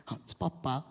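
ordinary delivery

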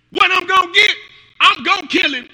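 loud, high, eager boast. Acted. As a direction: crow it like a fighter ready to go. David's eager boast acted.

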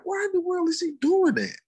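high-pitched puzzled mom; imitating wondering mom. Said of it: "So she wondered".

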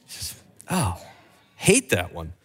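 low, soft groan of distaste; mock groan. Real, not acted. Preacher groaning at the bunny card to his church. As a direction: groan over the hated card.

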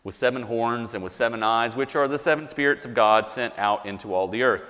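measured, solemn reading of the passage; sermon scripture reading with slow swells. Acted. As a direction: read it slowly, with reverent weight. Reads scripture aloud to congregation.

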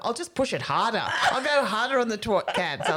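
chuckling, pushing on; laughing mock resolve. Comedian recalling her doomed gig, laughing. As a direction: say it as a bad plan, laughing. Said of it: "I went".

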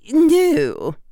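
high, loud Scottish professor; precise Scottish accent. A narrator's reading. Professor admitting she doesn't know, precise Scottish accent. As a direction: answer crisply as a Scottish professor. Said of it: "in her precise Scottish accent".

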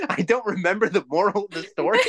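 breaking up mid-sentence; laughing. Real, not acted. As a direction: giggle it out at yourself. Laughing at own forgetfulness.

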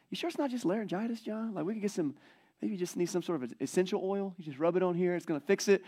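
mock the helpful friend with remedies; a light touch of a fussy neighbor; well-meaning busybody. Neighbors offering silly remedies.

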